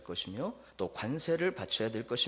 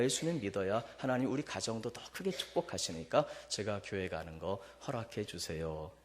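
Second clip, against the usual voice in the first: softer, gentle, respectful plea; 4 semitones lower, 3 dB quieter than usual. Shown as a demonstration. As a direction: humbly ask the parents' blessing. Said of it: "무슨 마음이 필요하다? 공경이".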